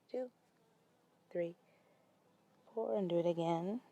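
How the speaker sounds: soft, spaced-out yoga count; guided breathing count. Acted. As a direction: count the breaths quietly, leaving room for each. Leads a slow breathing count.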